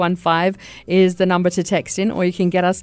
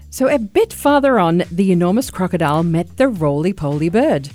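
lively read-aloud narration; story narration. Acted. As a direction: tell it like reading to a child. Reads a story aloud to listeners.

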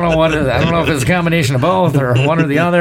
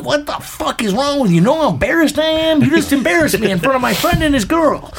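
imitated angry yelling; 8 semitones higher than usual. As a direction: berate a friend, as retold. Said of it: "I heard my buddy fucking yelling at him".

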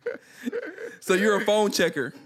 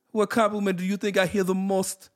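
mock Jamaican accent; 4 semitones higher than usual. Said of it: "in a different accent".

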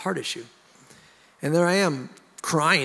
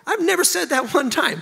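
loud, much higher burst of amazement; emphatic exclamation; 7 dB louder than usual. Real, not acted. Husband stepping out of his retold apology, emphatic high exclamation.

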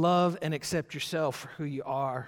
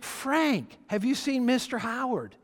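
higher-pitched pestering drunk, lightly imitated; insistent drunk; 7 semitones higher, slower than usual. Drunk stranger repeating his question to Frank, insistent imitation. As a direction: press the question like a tipsy stranger. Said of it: "this guy who's drunk off his rocker".

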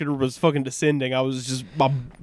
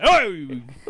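startled; 4 dB louder than usual. Real, not acted. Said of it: "You scared the shit out of me".

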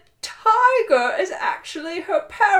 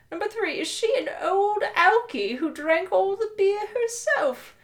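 put-on British accent; 3 semitones higher than usual. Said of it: "you're going to do a British accent".

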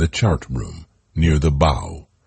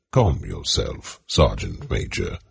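calming; 8 semitones lower, 3 dB quieter than usual. Acted. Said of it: "advised Shelton".

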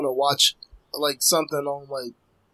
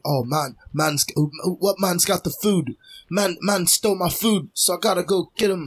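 lightly imitated inner-city London slang accent, higher pitched; London street accent; 4 semitones higher than usual. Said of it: "the inner city of London".

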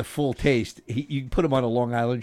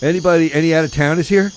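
put-on old borscht belt comic; 2 semitones higher, 4 dB louder, faster than usual. Hack comic crowd work.

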